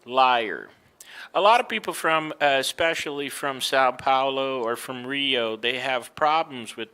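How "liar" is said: liar ending in a strong R; grunted R. Shown as a demonstration. Teacher modelling for Brazilian learners, liar with grunted R. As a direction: lean on the R closing liar. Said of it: "make it as, you know, this grunt".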